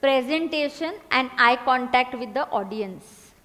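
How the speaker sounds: very slow, word by word; slow dictation. Shown as a demonstration. Teacher dictating the last point, slow. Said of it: "आखिरी point".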